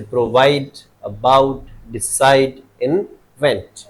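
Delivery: प्रोवाइड, अबाउट, डिसाइड, इन्वेंट split after the prefix, second part stressed. Shown as a demonstration. Teacher showing where stress falls after a prefix, second syllables stressed in प्रोवाइड, अबाउट, डिसाइड, इन्वेंट. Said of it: "तो इसके आगे वाले पे".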